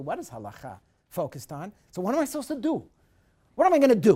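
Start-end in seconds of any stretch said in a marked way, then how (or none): 1.9-4.1 higher, louder anxious asking; a touch of a troubled sufferer; voicing the sufferer. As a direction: ask it like someone lost in trouble.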